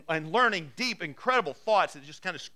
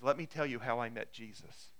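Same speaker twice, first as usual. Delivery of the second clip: soft, quiet testimony; 5 semitones lower, 5 dB quieter than usual. Acted. Paul begins his testimony.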